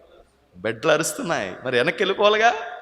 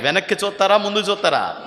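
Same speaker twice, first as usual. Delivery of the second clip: building, louder and higher with each question; preacher driving the choice home; preaching at full force; 7 semitones higher, 9 dB louder than usual. Acted. Preacher urging the congregation to choose God, building to a loud, high cry.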